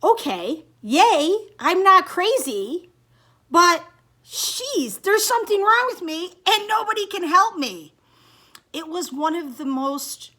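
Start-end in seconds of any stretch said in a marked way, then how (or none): 0.0-7.9 tearful relief. Retold or imitated. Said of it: "I just started to sob".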